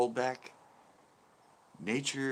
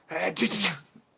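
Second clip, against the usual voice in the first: imitated rapid-fire sneeze; mock double sneeze; 9 semitones higher, 5 dB louder than usual. Shown as a demonstration. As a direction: burst out a fake stuttering sneeze. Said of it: "When it's like".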